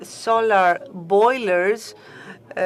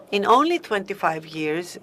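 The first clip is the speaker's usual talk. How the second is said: ONLY pitched up and punched; stress on ONLY. Real, not acted. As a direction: lean hard on the word "only". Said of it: "I want to stress the word only".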